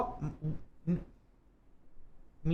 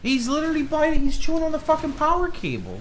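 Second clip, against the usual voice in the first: higher, louder outburst at the cat; disbelieving rant, pitched up; exasperated; 11 semitones higher, 4 dB louder than usual. Real, not acted. Cat chewing the power cable.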